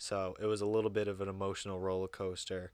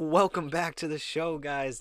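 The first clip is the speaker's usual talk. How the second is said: bright, louder, higher welcome; hyped; 6 semitones higher, 7 dB louder than usual. Real, not acted. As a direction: pump up the intro. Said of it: "I am hyped".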